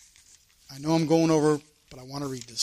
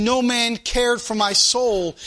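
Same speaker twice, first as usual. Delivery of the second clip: slower, pleading lament; David crying out; 4 semitones higher, slower than usual. Retold or imitated. Preacher voicing David's cry to God, slow lament. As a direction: draw out the lonely plea. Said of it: "David's crying out and he's saying".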